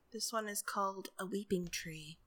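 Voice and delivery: breathy whispered title. Pretend.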